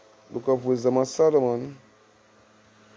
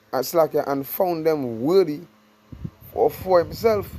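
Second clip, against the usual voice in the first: slow, drawn-out verse reading; scripture reading; slower than usual. Acted. Preacher reads the promise to believers, slowly. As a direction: linger on each phrase of the verse.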